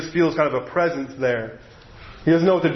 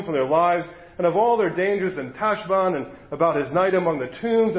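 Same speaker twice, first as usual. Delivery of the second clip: reading a novel aloud to a congregation; story reading; 2 semitones higher than usual. A narrator's reading. Preacher reading the book to his listeners, storytelling voice. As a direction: lets the story unfold, voicing it lightly.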